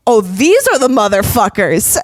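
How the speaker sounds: mock yell out a car window; loud, drunken-bravado call-out, lightly acted; retold drunk scream. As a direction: call them out loudly, half-yelling.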